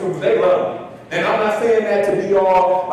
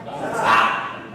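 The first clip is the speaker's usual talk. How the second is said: hushed stop; 7 semitones lower than usual. Retold or imitated. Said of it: "waiting for me to say what".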